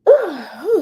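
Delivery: sudden loud sneeze; sneezing. Real, not acted. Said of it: "I have to sneeze".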